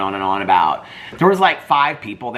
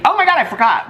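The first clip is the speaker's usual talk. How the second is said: mock surprised gasp; 12 semitones higher, 5 dB louder than usual. Postal worker's sudden recollection.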